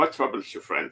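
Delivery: hushed, secret-sounding whisper. Game player's character whispers to another as he walks past, whispering in Goblin. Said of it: "he'll whisper to him in Goblin".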